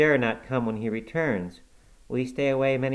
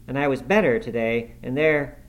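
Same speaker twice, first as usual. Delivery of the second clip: whimpering; 4 semitones higher, 6 dB louder than usual. A narrator's reading. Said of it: "his voice died in a whimper".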